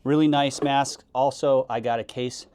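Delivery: muffled behind a mask; talking through the mask filter; through a gas mask. Real, not acted. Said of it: "this is how it will look and work".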